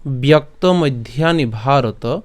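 slow, measured Sanskrit shloka recitation; stretched, deliberate scripture reading; verse recitation. Shown as a demonstration. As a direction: recite the verse slowly, line by line.

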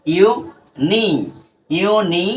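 "ইউ" and "নি" as separate beats; broken into syllables. Shown as a demonstration. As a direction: sound out "ইউ", pause, "নি". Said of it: "ভেঙে নিলাম". ("ইউ নি" আলাদা আলাদা করে)

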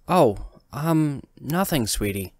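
a touch breathless, startled then covering it; hiding her fright from her son, lightly; caught breath. Acted. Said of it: "I catch my breath".

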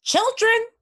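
high, loud stuttering mother goose; snapping goose. Acted. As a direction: scold like a fussy goose. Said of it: "snapped the goose".

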